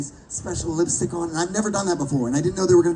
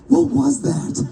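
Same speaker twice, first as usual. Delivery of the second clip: higher, indignant demand; retold outburst of disbelief; exasperated outburst; 6 semitones higher, much slower than usual. Comic calling the agent after the session, exasperated.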